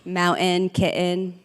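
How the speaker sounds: Jersey accent, showing off local pronunciation. Shown as a demonstration. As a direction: demonstrate the words in a Jersey accent. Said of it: "That's how we say it in Jersey".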